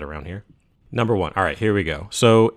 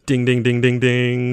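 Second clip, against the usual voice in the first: correct answer ding; 5 semitones higher, 7 dB louder than usual. Pretend. Correct answer game show bell.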